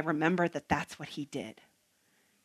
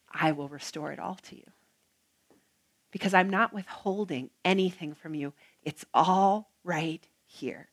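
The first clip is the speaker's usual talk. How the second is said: tender voice of God. Acted. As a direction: speak as God comforting a lost child. Voicing God tenderly to listener.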